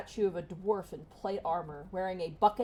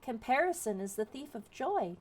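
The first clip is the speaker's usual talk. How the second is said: higher, soft consoling counsel; soothing sage, pitched up; gentle consoling; 6 semitones higher, 4 dB quieter than usual. Acted. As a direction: offer gentle wisdom, lifted and light. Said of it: "gently strokes the top of your head".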